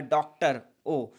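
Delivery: डॉक्टर said slowly with a rounded ओ, then ओ on its own; showing the o sound. Shown as a demonstration. Teacher showing students the English o sound, slow. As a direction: stretch the ओ in डॉक्टर, x0.5. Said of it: "English में आप बोलोगे डॉक्टर तो ओ का sound".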